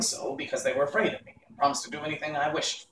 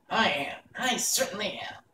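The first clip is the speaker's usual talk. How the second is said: sorrowful; 7 semitones higher than usual. A narrator's reading. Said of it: "answered the little man sorrowfully".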